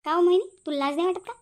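sharp, loud rebuke at the daughter-in-law; angry scolding. Acted. Mother-in-law scolding her son's wife, loud and angry. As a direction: snap her name out in anger.

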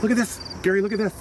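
high excited calls to Gary; high-pitched eager calling. Acted. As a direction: call Gary over, thrilled. Excited calling to Gary over table.

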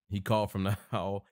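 breaking into a laugh mid-line; chuckling through the words. Real, not acted. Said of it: "He's still in the hall at this point?".

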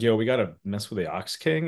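lightly voiced casual proposal to the gang; a hint of a cartoon schemer pitching a plan; Pilaf. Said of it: "Pilaf's like".

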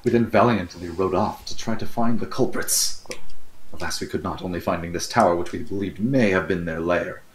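mock-heroic report.

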